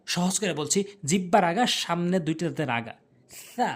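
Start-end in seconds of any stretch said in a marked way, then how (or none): 3.5-3.7 সা as a light lisped th; soft th sound. Shown as a demonstration. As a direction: let সা hiss lightly off the tongue tip at the teeth. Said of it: "হালকা করে".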